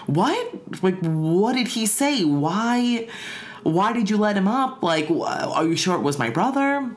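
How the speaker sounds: high, startled questions tumbling out; alarmed disbelief. Retold or imitated. Stepmom questioning the old woman, alarmed and high. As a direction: voice jumps up in panicked surprise. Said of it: "And my stepmom is like".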